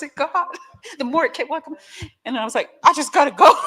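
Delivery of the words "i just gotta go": mock tearful exit. Retold tearful escape.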